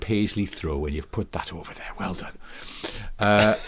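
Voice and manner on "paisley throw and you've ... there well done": presenter voice drifting into Irish; accidental Irish. Pretend. Presenter praising a homeowner's jaunty paisley throw, drifting into Irish. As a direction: let a slight Irish lilt creep in. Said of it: "Suddenly became Irish at the end".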